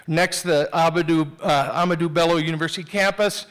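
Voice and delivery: ordinary delivery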